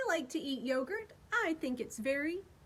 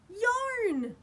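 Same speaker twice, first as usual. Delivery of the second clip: excited reveal; 8 semitones higher, 4 dB louder than usual. Shown as a demonstration. Guessing the Y word aloud.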